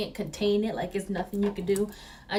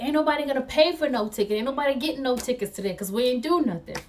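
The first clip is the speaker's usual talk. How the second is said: quick, raised-pitch mock defiance; imitated indignant refusal; defiant stepdad; 5 semitones higher, faster than usual. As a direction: rattle it off like a stubborn relative refusing. Stepdad refusing tickets, acted out.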